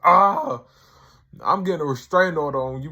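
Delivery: high, loud retold outburst, fast at the end; mock alarmed yell. Tyrone shouting back at Rob, loud high mock alarm. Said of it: "he's like".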